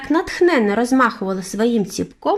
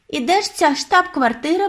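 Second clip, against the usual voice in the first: put-on boy's eager cry, much higher; excited exclaim; 10 semitones higher than usual. A narrator's reading. Boy begging grandmother to reveal the headquarters, excited. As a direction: burst out with the question. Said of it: "вигукнув я".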